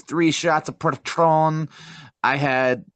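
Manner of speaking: slow, imitated Hispanic accent; lightly put-on Hispanic accent. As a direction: draw out the drink names with a Hispanic accent. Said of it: "saying that in a Hispanic accent".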